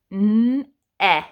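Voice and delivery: "N-e-, eh" built up sound by sound. Shown as a demonstration. Teacher sounding out never's vowel for kids. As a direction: stretch "N-e-" then isolate "eh". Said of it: "I hear the eh vowel sound".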